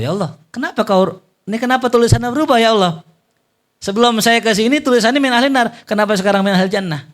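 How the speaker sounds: high, loud, urgent questioning angel voice; puzzled angel. Acted. Angel pleading with Allah, high and urgent. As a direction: press the question like a baffled angel.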